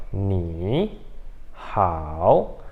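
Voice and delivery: "ni hao" grave, sílabas separadas por pausa, cada uma desce e sobe; sem fluir. Shown as a demonstration. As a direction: quebre "ni hao" em dois terceiros tons completos. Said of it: "parece que não flui". ("ni ... hao" travado, cada sílaba descendo e subindo)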